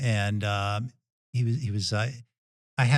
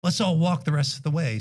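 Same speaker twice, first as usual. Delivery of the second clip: mildly excited suggestion, pitched up; retold excitement; 6 semitones higher than usual. Brother-in-law greets the runners mid-race, lightly imitated excitement. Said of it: "he's all excited when he sees us".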